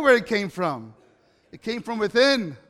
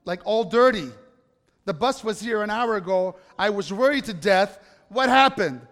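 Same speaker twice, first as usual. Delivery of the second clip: a mother who was worried to death, now letting it out; scolding mother; 4 dB louder than usual. Retold or imitated. Worried mother scolds her son.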